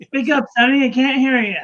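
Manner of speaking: put-on high, croaky old lady asking; deaf old lady. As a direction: play a hard-of-hearing granny.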